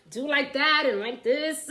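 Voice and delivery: chuckling through the words; laughing. Real, not acted. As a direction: laugh while showing it. Laughing while showing stretches.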